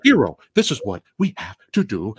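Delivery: hammed-up old-movie mad scientist; mock villain addressing the hero; lightly voiced evil scientist. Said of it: "the old evil scientist speak".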